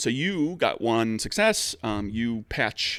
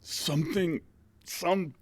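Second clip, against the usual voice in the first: higher, halting words through swollen lips; injured, mouth-damaged speech; 7 semitones higher than usual. Acted. Beaten coach answering a worried Charles, halting injured speech. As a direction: struggle to talk through missing teeth. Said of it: "speaking through multiple missing teeth, and swollen lips".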